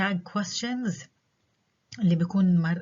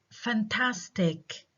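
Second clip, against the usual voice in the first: drawn-out, higher "Fantastic" that falls away; falling exclamation; 4 semitones higher, much slower than usual. Shown as a demonstration. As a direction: stretch "Fantastic" slowly, then let it drop. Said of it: "have falling intonation".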